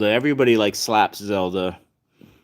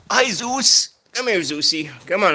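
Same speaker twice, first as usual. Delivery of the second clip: pet talk; 7 semitones higher than usual. Real, not acted. Owner cooing to her cat in high baby talk. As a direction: coo at the pet in a much higher voice.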